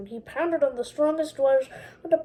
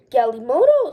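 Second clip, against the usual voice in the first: cheer; 7 dB louder than usual. Acted. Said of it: "someone cheered".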